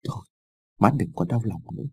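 soft, subdued comfort; consoling. A narrator's reading. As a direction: gently console a grieving mother. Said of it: "cậu Tư an ủi mẹ".

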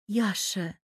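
soft, affectionate call of his name; girl softly calling her lover's name; tender. A narrator's reading. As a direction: say Яша gently, lovingly. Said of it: "уже ласково проговорила Ждана".

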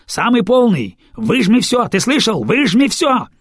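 shouting orders through a tube. Acted. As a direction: yell into a speaking tube. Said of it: "подскакивает к переговорным трубам".

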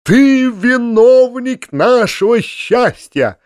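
high, slow, loud ecstatic cry; frenzied rapture. A narrator's reading. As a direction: proclaim him the hero. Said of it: "в исступлённом восторге". (исступлённо, высоко и протяжно)

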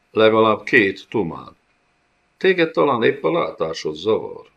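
crush the worm with scorn; menacing monster rebuke. Acted. The Griff berates the kneeling gocsomul before blinding him.

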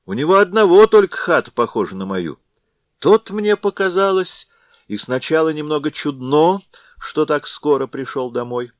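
put-on a befuddled old man reasoning aloud; Chub muttering to himself. Chub puzzling over the hut to himself, lightly voiced. Chub's inner monologue, voiced.

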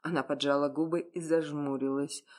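ordinary delivery

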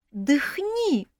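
high, lightly voiced offended elf; sulky sleepy elf. A narrator's reading. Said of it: "разобиженно заявил сонный Умриэль".

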